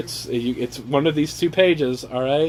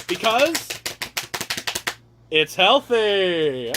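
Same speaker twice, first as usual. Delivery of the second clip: softer reveal; 4 semitones higher, much slower than usual. Pretend. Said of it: "I'm gonna need a drum roll".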